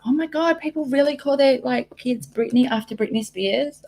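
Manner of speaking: high mock-amazed reaction, easing down; retold amazement. Retelling a reaction to the daughter's name, mock amazement. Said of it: "And I was like".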